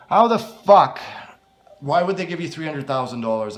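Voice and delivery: loud, high astonished outburst; can't believe the sum; shocked disbelief. Acted. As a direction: blurt it out stunned. Shocked at huge payment.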